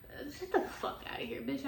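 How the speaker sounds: breathy laugh through the words; half-laughed "shut the fuck outta here"; laughing dismissal. Real, not acted. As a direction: laugh it away in disbelief. Laughing off the idea.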